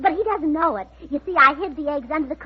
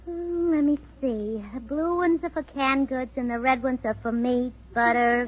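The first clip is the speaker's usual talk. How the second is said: low, soft mumble to oneself; mumbling; 3 semitones lower, 6 dB quieter than usual. Acted. Wife puzzling over her ration book at breakfast, mumbling. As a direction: mumble along while puzzling it out. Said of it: "what are you mumbling about".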